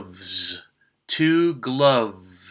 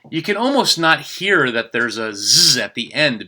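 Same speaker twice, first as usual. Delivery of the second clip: whisper. Real, not acted. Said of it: "whispered aside".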